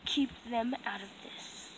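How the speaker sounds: low hushed plea; tense whisper. Acted. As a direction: whisper it urgently. Captive pleads hushed.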